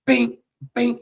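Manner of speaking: ringing bing noises; short sound-effect pings; imitated bouncing clinks. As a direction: mimic a pipe bouncing. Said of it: "Fucking it's just".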